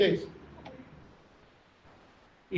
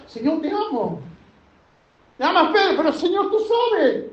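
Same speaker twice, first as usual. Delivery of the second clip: Peter weeping; 5 semitones higher than usual. Acted. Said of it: "Pedro lloraba y decía".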